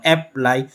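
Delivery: अप्लाई with the weight on प्लाई; stress on second syllable. Shown as a demonstration. Teacher showing where stress falls, second syllable of अप्लाई stressed. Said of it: "प्लाई पे ज़्यादा जोर दिया जाता है".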